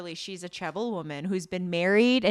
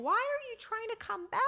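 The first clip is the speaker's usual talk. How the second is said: mock exasperation. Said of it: "you're like".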